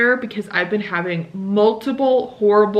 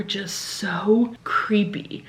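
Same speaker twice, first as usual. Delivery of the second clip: hushed creepy; whispered; 4 dB quieter, much slower than usual. Real, not acted. Whispered word about his messages.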